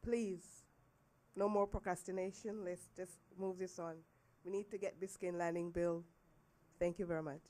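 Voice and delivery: rough voice, getting over the flu; hoarse from the flu. Real, not acted. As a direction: speak through a sore, hoarse throat. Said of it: "Excuse my voice. I'm just getting over the flu".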